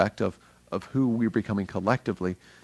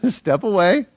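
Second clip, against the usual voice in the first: high, louder playful command: step away; urgent call; 9 semitones higher, 7 dB louder than usual. Retold or imitated. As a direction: call it out with a grin. Repeats God's call, louder.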